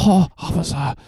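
high-pitched mock New Yorker; New York accent. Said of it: "It's just New Yorker".

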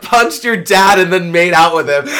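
put-on loud, laughing ditzy zodiac girl. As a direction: ham up a flighty zodiac type, laughing. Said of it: "I'm an asparagus".

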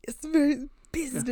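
hushed, airy put-on voice; Lisa Vanderpump. Co-host joining in on the catchphrase, whispered impression. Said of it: "Lisa Vanderpump".

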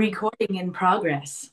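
flat automated announcement voice; computer voice. Pretend. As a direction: sound like the Zoom recorder. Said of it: "try to be the computer voice".

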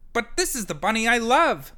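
Wesley tells the stink bug he loves Marlon; brave Wesley. A narrator's reading. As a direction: stand up for him with feeling. Wesley defends love.

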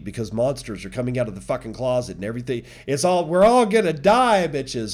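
hammed-up scared we're all gonna die; mock panic. Mocking panicked retail.

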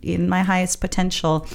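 mock-whine about not finding the right job; recalling her frustrated job search, a light mock whine. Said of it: "I'd be like".

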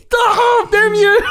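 very high, hammed-up shriek; screaming at a driver. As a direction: shriek at the car, laughing as you go. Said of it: "I think I screamed too".

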